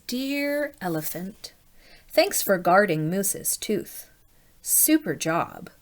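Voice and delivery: slow, gentle letter read; slow tender note reading; sweet note. Acted. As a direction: read it like a kind fairy. Reading Tooth Fairy's note.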